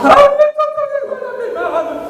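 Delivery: high-pitched, mock sobbing wail; imitating sobbing man. A grown son confessing to the pastor, mock sobbing high. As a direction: let the voice break up high like a crying man. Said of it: "llorando me lo decía".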